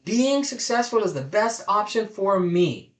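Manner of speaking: affirmation said like you own it; energy and meaning. Shown as a demonstration. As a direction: say it with conviction, owning every word. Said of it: "Say it with energy. Say it with meaning".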